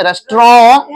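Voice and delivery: रेस्टोरेंट said clipped, rest-ront; correct restaurant. Shown as a demonstration. Teacher modelling रेस्टोरेंट for kids, clipped middle. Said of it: "रेस्टोरेंट नहीं है".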